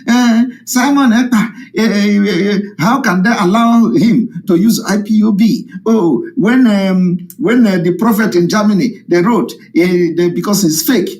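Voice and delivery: a lightly voiced, fussy ranting woman; mock ranting woman. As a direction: lampoon a woman ranting online. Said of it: "That one was ranting".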